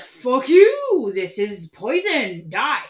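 furious yelled threat; angry body voice. Retold or imitated. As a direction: scream it like a furious enemy. Body voiced attacking food.

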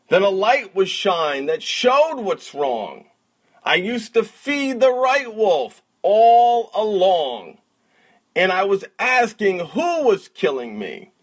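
rhythmic spoken word recital; slam poet. Acted. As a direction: perform it like a slam poem. Recites client's poem.

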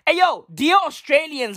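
ordinary talk

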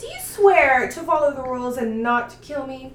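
laughing, hammed-up prim voice; mocking. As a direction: tease her as a goody two-shoes. Mocking goody two-shoes quote.

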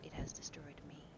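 soft, near-whispered confession; subdued admission. Acted. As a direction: say it quietly and gravely. Dorian's quiet, grim correction.

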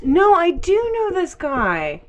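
high, drawn-out excited cry; light up with recognition. Real, not acted.

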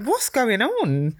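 high, slow, drawn-out question; bewildered reaction. Retold or imitated. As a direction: stretch it out in mock bewilderment. Retelling bewildered reaction to scene.

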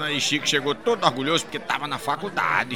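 ordinary delivery

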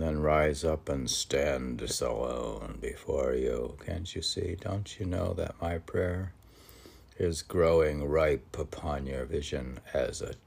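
measured poetic reading with swelling lines; poem recitation. Acted. Host reciting a Rilke poem to listeners, lyrical recitation. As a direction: read it as if the verse rises by itself.

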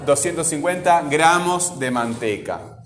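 deliberate phrasing, break after "gramos"; measured demo with a gap before "de manteca."; pause after gramos. Shown as a demonstration. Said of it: "Ahí haría una pausa".

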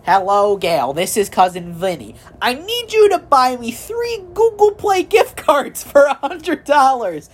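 a lightly voiced needy cousin begging; mock scammer plea. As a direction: beg for gift cards in a hammed-up high voice. Scammer's email read aloud.

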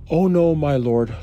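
begging plea. A narrator's reading. Reading Lot begging the angel, a hint of pleading. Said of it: "Lot begged".

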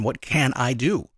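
slow, searching question; slow pondering. Retold or imitated. The listener finally asking the question, slow and pondering. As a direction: ask it slowly, thinking it over. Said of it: "you're gonna ask the question".

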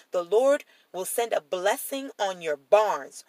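measured, emphatic Bible reading; deliberate reading aloud with key words stressed; scripture reading. Acted. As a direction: read the promises out with weight.

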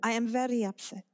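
light mock Italian accent, chairman upset; a hint of an Italian boss complaining; lightly done Italian accent. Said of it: "this is my Italian accent".

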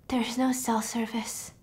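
slow, hushed whisper. Retold or imitated. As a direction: whisper the bad news. Caller whispering bad news.

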